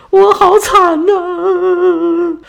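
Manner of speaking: long, very high comic wail; mock sob of the sea goddess; exaggerated wail. A narrator's reading. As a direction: howl it out slowly like a hammed-up cry. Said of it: "眼泪都下来".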